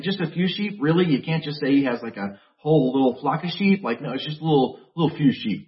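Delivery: mock condescending sneer at the little brother. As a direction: belittle him, lightly acted. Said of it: "Like, so condescending".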